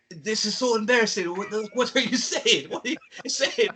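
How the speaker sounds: high-pitched imitation of an African tourist's accent; weird African accent. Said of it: "they all had, like, different, uh, weird accents".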